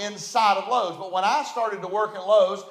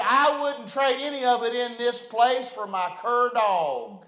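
lightly imitated mountain hillbilly; 2 semitones higher than usual. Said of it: "In his hillbilly mountain voice".

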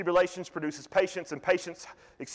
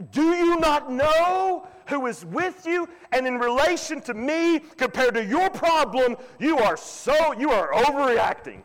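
Jesus gently chiding; 9 semitones higher, 3 dB louder, slower than usual. Retold or imitated. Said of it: "So the thought is".

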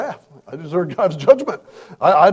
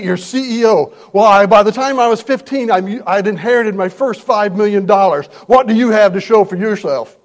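a CEO tearing into his lazy staff, getting louder; boss yelling; 6 dB louder than usual. Retold or imitated. A CEO yelling at his employees, building to a loud rant. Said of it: "he's yelling at his employees".

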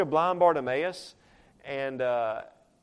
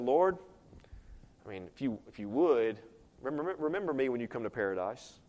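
soft, low, offhand mumbling request; mock half-hearted call; 5 semitones lower, 5 dB quieter, faster than usual. Shown as a demonstration. Preacher showing how the thief did not ask, half-hearted murmur. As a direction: ask it diffidently, stumbling over the start. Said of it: "You think that's how he said it?".

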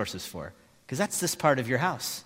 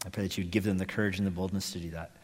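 earnest, measured prayer voice; closing prayer; 4 semitones lower than usual. Real, not acted.

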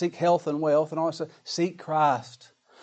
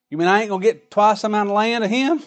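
higher, louder indignant whine over the land; greedy Esau; 6 semitones higher, 6 dB louder than usual. Retold or imitated. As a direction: play the grasping son who feels cheated. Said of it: "He wanted a temporal blessing".

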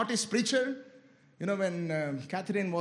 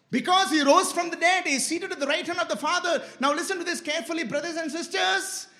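raised, higher preaching voice; fervent preaching; 7 semitones higher, 4 dB louder than usual. Real, not acted. Preacher to brothers and sisters on the risen Christ, fervent. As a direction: urge the congregation on, pitched up.

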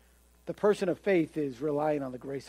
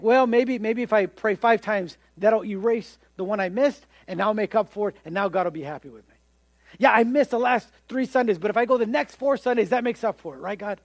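higher, eager bargaining with God; bargaining believer; 3 semitones higher, 3 dB louder than usual. Retold or imitated. Religious person bargaining with God to make up, eager. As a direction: try to strike a deal. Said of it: "And then you think".

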